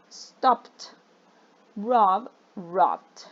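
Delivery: careful past endings, each verb then its ed form; teacher models the ed endings one by one, slow and clear; past tense endings demo. Shown as a demonstration. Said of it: "la pronunciación va a ir cambiando".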